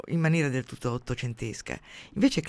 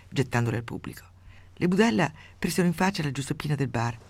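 steady storyteller's reading voice; measured radio story reading; story narration. A narrator's reading. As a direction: read the tale out with dry relish. Reads a grotesque story aloud.

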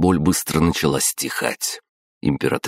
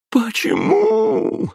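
очень высокий протяжный вопль; закричать истошно от боли; истошный крик; much slower than usual. A narrator's reading. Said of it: "истошно закричала она". (горящая императрица кричит мужу)

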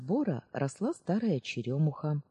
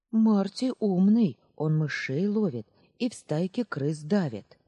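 put-on boy defending his cat; 4 semitones higher, 5 dB louder than usual. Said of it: "вызвался защитить друга мальчонка".

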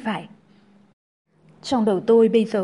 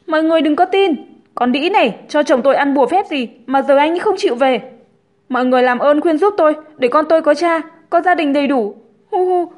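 high, loud mock-sobbing plea; tearful, pleading Linh; 6 semitones higher, 6 dB louder than usual. A narrator's reading. Linh begs onlookers to persuade Hùng, hammed-up tearful appeal. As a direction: beg the crowd, playing the victim.

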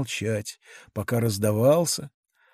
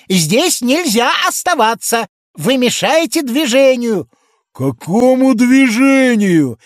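higher and louder official tone; stern policeman; 9 semitones higher, 6 dB louder than usual. A narrator's reading. Policeman telling the giant to go home, higher and louder. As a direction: order him home like a pompous constable.

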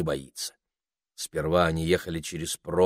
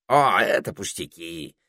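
nonchalant. A narrator's reading. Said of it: "небрежно заметил попугай".

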